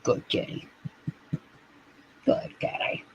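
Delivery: soft whisper to the kitty; hushed whisper; whispered praise. Acted. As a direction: breathe it gently to the cat.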